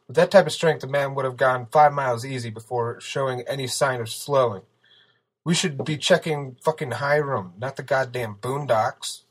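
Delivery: loud, heated rant; angry yelling. A narrator's reading. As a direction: yell your objection at the team. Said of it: "Steele yelled".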